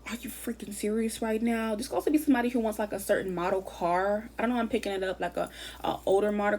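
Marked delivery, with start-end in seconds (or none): 0.1-1.8 slow, stunned, delighted question; amazed disbelief. Retold or imitated. Imagining someone getting what they wanted, stunned joy. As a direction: savor the disbelief. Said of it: "and it's like".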